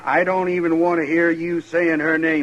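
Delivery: loud, furious warning to back off; jealous brother flaring up loud; angry outburst. Acted. Brother quarrels over sister.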